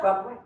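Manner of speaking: "Robert Ray" run together as one easy name. Shown as a demonstration. Showing listeners how "Robert Ray" runs together, smoothly joined. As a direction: say "Robert Ray" with no gap between the words. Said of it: "It just runs together".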